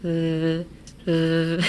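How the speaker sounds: buzzing v sound; phone vibration v. Shown as a demonstration. Teacher imitating a vibrating phone, buzzy v. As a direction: buzz the lips like a phone on vibrate. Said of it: "impression of a cell phone".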